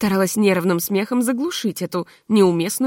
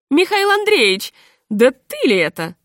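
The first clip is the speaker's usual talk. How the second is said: joyful recognition; 5 semitones higher, 4 dB louder than usual. A narrator's reading.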